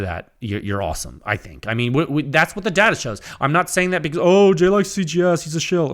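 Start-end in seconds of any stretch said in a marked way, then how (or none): 4.2-5.9 higher, louder mimicked accusation; put-on accuser's voice, pitched up; mocking critic. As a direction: mimic a whining detractor calling out bias. Mimics critics accusing him of bias.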